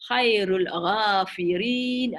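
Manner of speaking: Khairul ghafirin drawn out slowly in Arabic; تلاوة بطيئة; slow Arabic recitation. Shown as a demonstration. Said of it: "this is the off structure".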